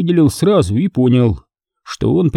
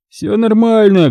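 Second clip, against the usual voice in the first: firm drawl; 9 semitones higher than usual. A narrator's reading. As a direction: brush the question off. Igor repeats, firmer.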